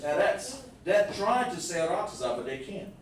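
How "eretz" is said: raised, German-sounding "Eretz"; mock-German EH-rets; mimicked German accent. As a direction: imitate German "Eretz" on a higher pitch. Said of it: "it sounds similar to German".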